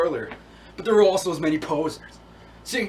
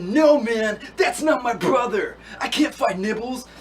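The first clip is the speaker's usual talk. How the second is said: higher-pitched, pleading refusal; acted protest; 5 semitones higher, slower than usual. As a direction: protest as the dog refusing the fight. Acting out the dog's protest.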